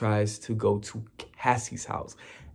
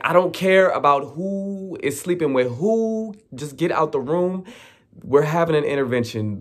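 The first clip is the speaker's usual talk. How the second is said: higher, quick, fed-up orders; exasperated mom; 5 semitones higher than usual. Retold or imitated. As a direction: order them out firmly.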